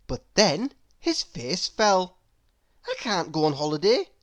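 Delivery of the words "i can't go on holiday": quick worried thought. Acted. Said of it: "he thought".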